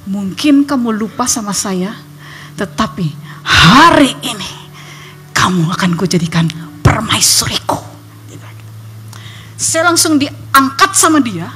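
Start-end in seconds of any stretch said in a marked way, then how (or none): 0.1-7.8 hushed, deliberate words of a captor, lightly acted; menacing suitor. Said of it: "dan dia berkata".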